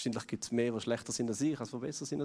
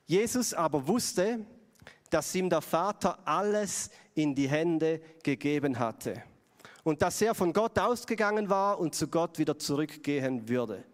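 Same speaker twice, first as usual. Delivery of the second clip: slow, solemn Bible reading; Scripture reading; 2 semitones higher, slower than usual. Acted. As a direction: read the verse slowly and with weight. Reads Bible passage. (langsame, feierliche Bibellesung)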